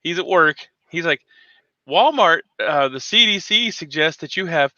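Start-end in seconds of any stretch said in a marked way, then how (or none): 1.9-4.7 flat store announcement voice; Walmart speaker voice. Retold or imitated. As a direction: read it like a PA announcement. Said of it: "It's the Walmart speaker".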